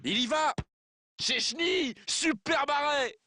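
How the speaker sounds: high, rising save call; excited sports commentary. Acted. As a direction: call the save at full pitch. Goal-line save call.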